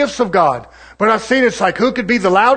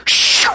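mock spirit shoo; 5 dB louder than usual. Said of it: "Do y'all remember that?".

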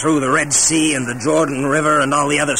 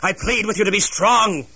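rallying speech; 3 semitones higher than usual. Acted. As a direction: raise them up, commanding and firm. General rallies his troops.

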